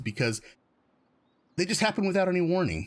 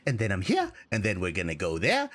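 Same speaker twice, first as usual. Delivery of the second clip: Korg voice; 3 semitones higher than usual. Retold or imitated. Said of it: "And he's like".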